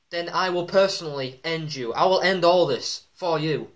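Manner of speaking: lightly acted wrestling promo; a touch of a wrestler's emphatic challenge; Triple H. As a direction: deliver a measured ultimatum to a rival. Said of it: "saying to Sting".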